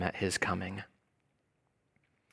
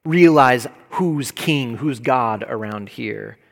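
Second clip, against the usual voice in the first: God shouting down the nations; 5 dB louder than usual. Acted. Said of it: "as God shouts down the nations".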